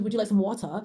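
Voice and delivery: imitating a British dad; British "water", the final r dropped; British accent. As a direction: lightly mimic a British parent's offer. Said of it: "But if he says it".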